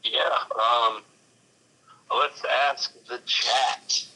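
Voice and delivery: crackly speakerphone sound; staticky audio. Real, not acted. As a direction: voice breaking up on speaker. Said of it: "like, staticky".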